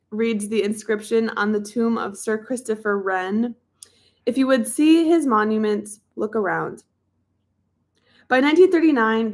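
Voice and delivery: measured audiobook reading voice; book narration. A narrator's reading. Reads a history book aloud.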